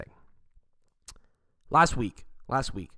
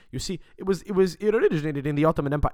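worked-up waiter, higher and louder; imitated going off; 5 semitones higher, 5 dB louder than usual. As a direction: mimic a waiter launching into a heated correction. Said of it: "he starts fucking going off".

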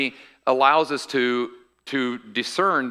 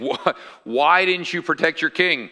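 mild mock holler, slightly raised; retold yelling; 3 semitones higher than usual. David calls to Abner across the canyon, retold as mild yelling. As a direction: imitate calling out, only half projected. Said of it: "he's yelling at Ab".

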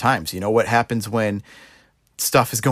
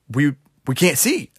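mildly acted, higher-pitched plea; pleading blind men; 5 semitones higher than usual. Blind man begs Jesus for sight, mildly pleading. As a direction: lightly imitate a blind man begging for help, voice raised in pitch. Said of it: "they're crying out for help".

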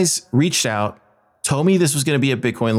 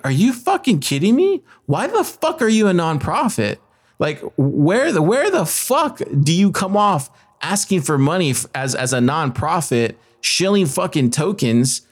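indignant rant, pitched up at first; reliving the outrage, incredulous and higher at the start; pissed off; 4 semitones higher than usual. Retold or imitated. Conference-goer ranting at a nonprofit shilling tokens, pissed off. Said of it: "I was so fucking pissed".

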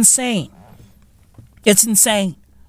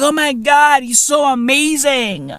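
mock gushing; 4 semitones higher than usual. Acting out what everybody was saying.

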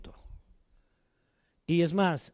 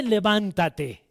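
slow rousing exhortation; much slower than usual. Real, not acted. Exhorting the congregation.

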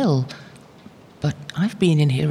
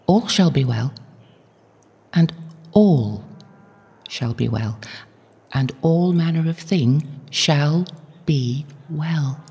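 solemn reassurance; 3 dB louder, slower than usual. Acted. Mother quotes God's promise.

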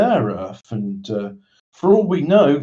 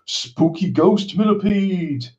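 spooky voice; 4 semitones higher, slower than usual. Acted. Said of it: "If I do the spooky voice".

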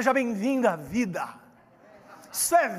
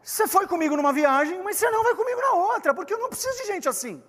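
higher, fast, mock-angry dismissal; angry retort; 8 semitones higher, faster than usual. Paulo angrily refusing João Marcos, fast and higher. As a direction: snap at the quitter, rushing the last lines. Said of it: "ele ficou muito bravo e falou assim".

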